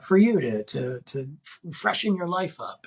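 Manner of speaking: halting, badly faked African accent; imitating an African host's accent, unconvincingly; attempted African accent. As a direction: have a clumsy go at an African accent. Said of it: "I can't do an African accent".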